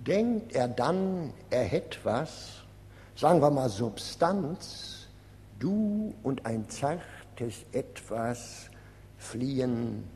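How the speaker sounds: rhythmic verse with falling line endings; poem recital. Acted. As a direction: recite the poem in measured lines, pausing between them. Poet recites his poem. (Gedicht rhythmisch vorgetragen)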